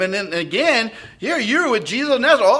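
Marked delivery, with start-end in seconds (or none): 1.2-2.5 fast, higher accusing voice; a bystander catching him out; pointed accusation. Acted. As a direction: point the finger, quick.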